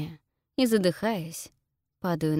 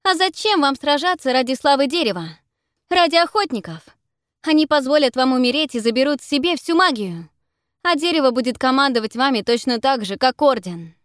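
loud, higher rallying shout; shouting over noise; 7 semitones higher, 8 dB louder than usual. Acted. Heroine shouting to the creatures over the din, loud. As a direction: project over the battle to persuade. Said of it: "Я кричу так, чтобы меня было слышно".

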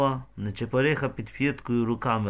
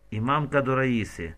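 ordinary delivery

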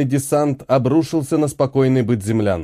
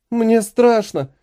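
высокий, медленный детский хнык; протяни слова, хныча от страха; хныканье; 8 semitones higher, slower than usual. Acted. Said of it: "захныкала девочка". (девочка хнычет матери от страха)

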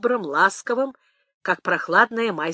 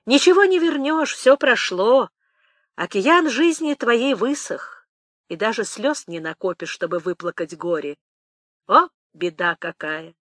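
put-on sorrowful old nanny's consolation; pitying; 2 semitones higher than usual. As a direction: start raised and keening, then settle into sorrowful sympathy. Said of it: "сказала она сожалеючи".

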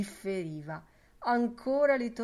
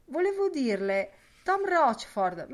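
higher, louder calling out; calling after; 7 semitones higher, 7 dB louder than usual. Acted. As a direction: call after him as he leaves. Lenihan calling after Boylan.

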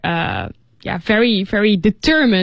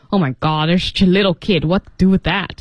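mildly exasperated grumble; low-key, acted irritation at a nuisance; annoyed; 4 semitones lower, faster than usual. Pharmacist grumbling about a little kid, mildly annoyed. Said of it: "the pharmacist was very annoyed".

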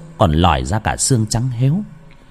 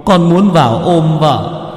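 higher, slow tearful pleading, breaking into a sung wail; weeping ghost; 5 semitones higher, slower than usual. A narrator's reading. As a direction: beg through tears like a grieving dead husband. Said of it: "Anh Đại đứng đấy mà bật khóc". (hồn ma khóc lóc van xin thầy)

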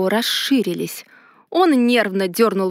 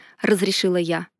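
ordinary delivery, nothing marked

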